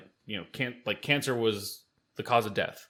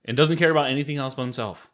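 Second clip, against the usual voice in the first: angry rant; 4 semitones higher, 3 dB louder than usual. Real, not acted. Ranting about governor.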